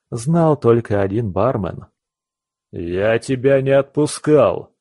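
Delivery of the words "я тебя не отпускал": put-on drunken roar. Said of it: "взревела эта пьянь зелёная".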